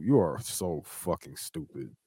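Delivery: slow, deliberate weight on "stupid"; stress on stupid. Real, not acted. Host berating Kyrie, slow emphasis on "stupid". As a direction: spell out the insult slowly, landing on "stupid". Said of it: "I really put the emphasis on stupid".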